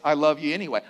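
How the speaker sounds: I love you anyway with love falling gently; the right kind of love, said tenderly; unconditional love. Shown as a demonstration. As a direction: settle on love, tender and sure.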